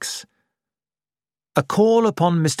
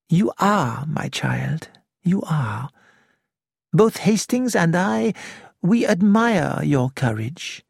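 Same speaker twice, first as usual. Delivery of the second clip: reassuring; 3 semitones higher than usual. Acted. Poirot reassures frightened Nick.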